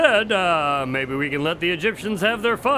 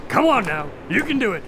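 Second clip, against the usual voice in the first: urgent coaxing; 4 semitones higher than usual. Acted. Doctor urging dying man on.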